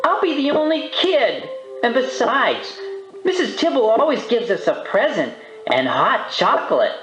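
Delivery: put-on high-pitched coaxing kid; begging. A narrator's reading. Sister coaxing Arthur to go caroling, high pleading. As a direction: plead your case as a little sister. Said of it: "begged D W".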